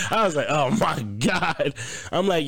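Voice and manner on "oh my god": retold dismay. Retells own embarrassed reaction.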